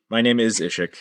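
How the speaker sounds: mechanical monotone robot voice. Pretend. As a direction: speak like a deadpan machine. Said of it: "Why you sound like a robot?".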